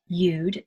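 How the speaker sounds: "You'd" with an ee-oo glide; E-U vowel. Shown as a demonstration. Teacher going through the sounds, "You'd" with E-U vowel. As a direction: say "You'd" as ee-ood. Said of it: "it's E U".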